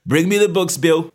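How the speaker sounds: put-on high, loud call to the shop boy; mildly grim satisfaction. A narrator's reading. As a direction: order it up, sure of winning. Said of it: "The salesman chuckled grimly".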